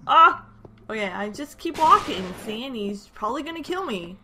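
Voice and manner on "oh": shrill, loud terrified yells; frantic shouted panic; panicked screaming. Real, not acted. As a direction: scream in real panic as the ghast attacks. Panicked screaming at ghast attack.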